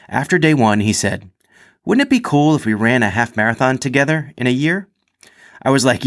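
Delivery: animated anecdote read from the page; story read-aloud. A narrator's reading. Reads athlete's written story aloud.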